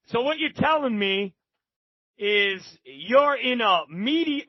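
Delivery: lightly put-on Texan drawl; Southern Texan drawl. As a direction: imitate a drawling Texan shot caller. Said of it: "with that Southern Texan drawl".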